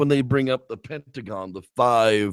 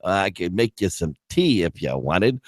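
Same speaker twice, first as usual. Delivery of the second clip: put-on old hag barmaid; 5 semitones lower, 4 dB quieter than usual. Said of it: "hag reply".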